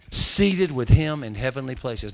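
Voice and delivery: preacher hammering his point home, loud and slow; emphatic slow repeat. Shown as a demonstration.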